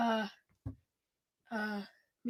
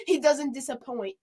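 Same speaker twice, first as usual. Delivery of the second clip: playful put-on English accent, louder; 5 dB louder than usual. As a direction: imitate an Englishman, firmly. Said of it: "say it like a, uh, uh, uh, England man".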